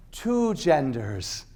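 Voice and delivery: two words spaced out slowly; slow and deliberate. Shown as a demonstration. Speaking slowly to the audience, plain and deliberate. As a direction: lay it down slowly. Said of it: "I'm gonna speak really slowly".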